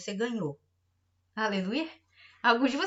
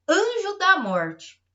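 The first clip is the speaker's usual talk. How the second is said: anjo da morte drawn out slow, high and loud; "da morte" stretched slow like a verdict; slow solemn stress; 6 semitones higher, 6 dB louder, much slower than usual. Acted. Pastor warns the church, slow and heavy. Preacher proclaims judgment.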